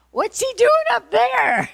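high, loud, incredulous retold question; astonished outburst. Facilitator baffled by Yeshua up on the skyscraper, astonished outburst. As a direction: play up the disbelief, voice shooting up.

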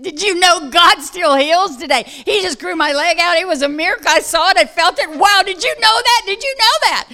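high, loud, tearful rush of joy; ecstatic tearful gushing. Retold or imitated. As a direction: pour it into her face, overjoyed. Tells receptionist of miracle, crying.

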